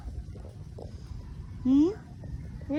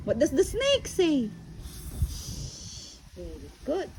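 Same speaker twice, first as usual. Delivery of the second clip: put-on talking to a toddler. Animal sounds game with toddler.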